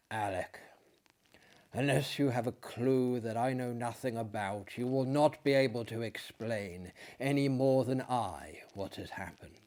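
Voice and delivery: quiet, weary retelling; very quietly. Acted. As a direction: begin gently, holding back the pain. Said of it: "He began very quietly".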